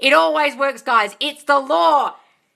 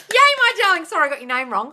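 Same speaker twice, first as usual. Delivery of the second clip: usual speaking voice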